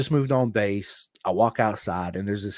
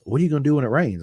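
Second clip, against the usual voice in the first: worried mom; 5 semitones higher, 5 dB louder, faster than usual. Retold or imitated. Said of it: "my mom's all freaking out".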